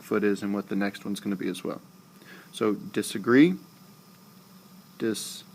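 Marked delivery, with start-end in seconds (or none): 2.7-3.5 disagree, rising onto GREE; dis-a-GREE, voice lifting at the end; stress on the last syllable. Shown as a demonstration. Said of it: "There's your three syllables". 5.0-5.5 disagree broken up as dis, a, gree; dis... a... GREE, piece by piece; split into syllables. Shown as a demonstration. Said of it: "There's your three syllables".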